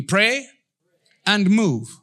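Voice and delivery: loud chant-like pray and move; punchy congregational call; call and response. Shown as a demonstration. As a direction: lead the crowd to repeat. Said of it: "Say with me".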